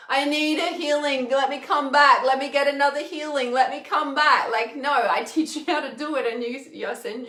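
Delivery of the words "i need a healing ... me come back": a hammed-up needy client, a bit higher and louder; mock needy client. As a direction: beg for another healing in a mock whine. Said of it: "and you're like".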